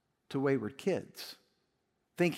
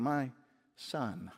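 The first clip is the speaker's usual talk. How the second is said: loving father; 2 semitones lower, 4 dB quieter than usual. Acted. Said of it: "the father could lovingly respond".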